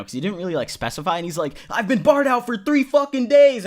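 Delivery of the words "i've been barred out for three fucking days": higher, mock stoned voice of the friend; a higher, hammed-up impression of a stoned guy; imitating the stoned acquaintance. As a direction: boast about being barred out in a put-on voice. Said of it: "Indian dude with a kinda thick accent".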